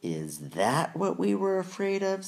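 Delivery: very high squeaky jeering creature; mocking goblin sneer. A narrator's reading.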